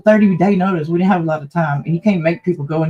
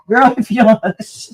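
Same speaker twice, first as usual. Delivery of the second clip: slow, high teasing scold with a laugh; mock-scold the pet, laughing; playful slow hush to a pet; 6 semitones higher, 5 dB louder, slower than usual. Real, not acted.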